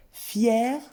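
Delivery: "fier" with its final r sounded; careful model pronunciation of "fier"; final r pronounced. Shown as a demonstration. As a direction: say "fier" like "fière", r audible. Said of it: "attention à la prononciation".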